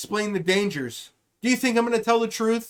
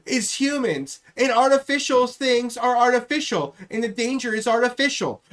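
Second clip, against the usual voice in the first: Kamala Harris impression. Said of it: "that's how the fuck she's gonna talk about it".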